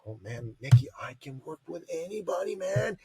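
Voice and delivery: lightly voiced laid-back young guy; a hint of the cocky client; casual mock bro voice; imitating Dan. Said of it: "And he goes".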